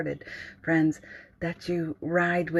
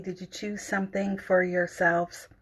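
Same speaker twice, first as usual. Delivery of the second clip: ordinary delivery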